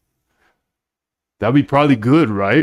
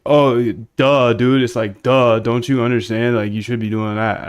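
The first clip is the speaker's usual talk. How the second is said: a light, mocking know-it-all "duh"; mock condescending. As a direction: talk down to them, just lightly imitating. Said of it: "makes it like".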